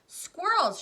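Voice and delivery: high, loud squeal; excited shout. Acted. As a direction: shriek it in delight. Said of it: "shouted Veruca Salt".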